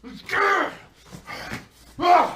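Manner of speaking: high hammed-up shriek of "lose"; shrieked falsetto mock chant. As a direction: snap "He's gonna lose!" out fast and high. Mocking screaming crowd.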